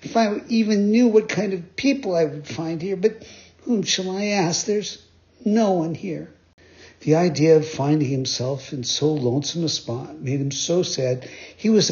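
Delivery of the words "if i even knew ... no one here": high, worried puppet voice; Pinocchio voice. Acted. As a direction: fret aloud, high and lost. Pinocchio alone on the island.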